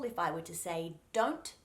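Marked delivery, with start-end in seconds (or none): 1.1-1.5 don't with a solid, clean first D; hard D. Shown as a demonstration. Coach gives example of word-initial D, hard D in don't. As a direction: start don't on a crisp hard D. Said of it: "that first D sound is a solid, clean".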